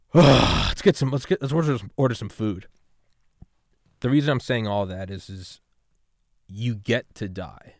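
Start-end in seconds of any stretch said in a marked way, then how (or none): 0.1-2.7 louder, higher, cheerful "let's get some food"; suddenly cheerful after the sigh; perked-up suggestion. Retold or imitated. Relieved friends at the hotel.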